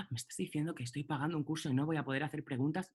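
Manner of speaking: mock whiny student, quick; alumno quejoso. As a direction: imitate a pushy student, fast. Alumno quejoso imitado por el profesor. (alumno protestón, rápido y burlón)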